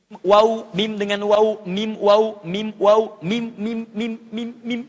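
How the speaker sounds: sounding out mim and waw; letters mim and waw. Shown as a demonstration. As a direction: say "mim" with lips pressed, "waw" rounded. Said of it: "Misal, ada yang di bibir".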